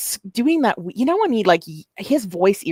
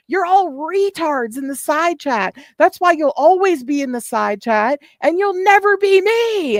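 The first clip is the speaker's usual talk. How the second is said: high-pitched yelling; 9 semitones higher than usual. Retold or imitated. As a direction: shriek the rant like a drunk streamer. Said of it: "that high-pitched yelling".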